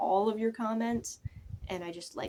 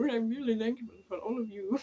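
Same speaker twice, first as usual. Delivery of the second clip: playful mock London accent; hammed-up London accent, breaking into a laugh. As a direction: put on an amateur London accent. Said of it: "Trying to do London accents".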